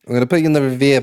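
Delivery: casual Boston-area accent; Massachusetts accent. Shown as a demonstration. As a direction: slip into a Massachusetts local's accent. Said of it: "my Massachusetts accent might come out".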